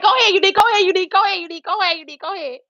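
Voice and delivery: high, loud chant fading down; excited urging. Retold or imitated. Coworker cheering Unique on, excited chant that fades.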